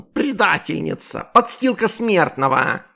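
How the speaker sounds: hissed insults. A narrator's reading. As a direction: curse her slowly and loudly. Kitten keeps insulting. (злобные медленные выкрики)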